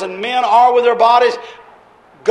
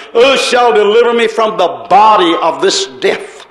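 cried out. Acted. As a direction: call out for deliverance. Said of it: "Paul cried out".

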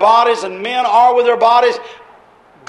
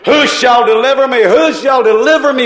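louder, pleading double cry; cried out; 3 semitones higher, 3 dB louder than usual. Acted. Preacher voicing Paul crying for deliverance, pleading loudly. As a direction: beg for rescue, voice pushed up. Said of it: "Paul cried out".

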